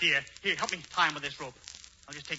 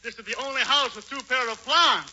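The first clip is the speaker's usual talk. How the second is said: pretending to be Hubert; 6 semitones higher, 4 dB louder than usual. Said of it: "make believe that you're Hubert Updike".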